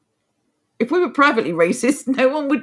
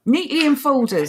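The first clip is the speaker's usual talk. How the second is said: sarcastic echo, pitched up; sarcastic, raised pitch; sarcasm; 4 semitones higher than usual. Real, not acted. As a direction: repeat it in mock wonder, a little higher. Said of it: "did I overdo the sarcasm there".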